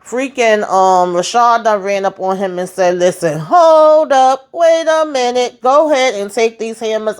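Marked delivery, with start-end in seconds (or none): 3.0-7.2 urgent plea. Retold or imitated. Retelling Rashad's urgent plea.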